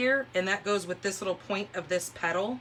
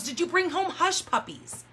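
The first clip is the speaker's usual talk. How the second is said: husband's puzzled question; 9 semitones higher than usual. Retold or imitated. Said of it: "And he goes".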